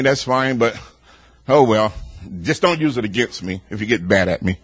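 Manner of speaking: ordinary delivery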